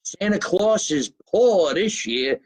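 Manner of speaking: father repeating. Retold or imitated. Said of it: "My father used to say".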